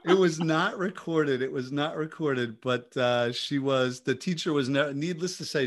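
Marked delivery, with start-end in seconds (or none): 0.0-1.4 slow, laughing through the words; real amused laugh; laughing denial. Real, not acted. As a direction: chuckle it out.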